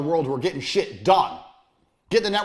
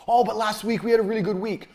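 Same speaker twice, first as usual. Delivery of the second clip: mock giddy boast; 5 semitones higher than usual. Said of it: "Do not be getting giddy".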